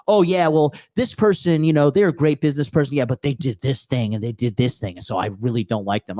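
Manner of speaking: lightly voiced petty grumbler; grudging sour hater, trailing off; mocking a hater.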